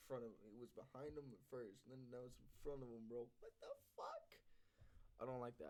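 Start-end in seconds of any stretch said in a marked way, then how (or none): 3.4-4.2 shocked whisper. Real, not acted. Shocked by sound in video.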